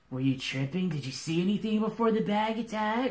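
dude-like voice climbing high; incredulous bard. Acted. Bard quizzes the bag's victim, incredulous rising voice.

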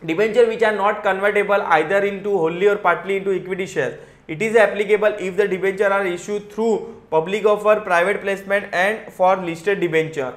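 slow, careful reading of legal text; reading out the rule. Acted. Teacher reading the regulation to students, slow and careful. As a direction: read each clause out slowly. Reads the provision text aloud.

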